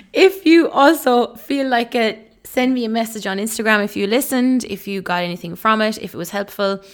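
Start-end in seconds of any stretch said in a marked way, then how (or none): 0.1-4.6 upbeat. Real, not acted. Upbeat outro call to action.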